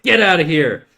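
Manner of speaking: mock-dramatic yell, holding back tears; imitated yelling. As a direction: drive away a beloved friend, acted. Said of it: "he's, like, yelling at his".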